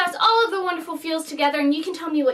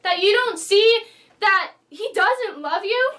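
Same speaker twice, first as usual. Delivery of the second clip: retold exasperation; 3 semitones higher than usual. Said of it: "I was so mad".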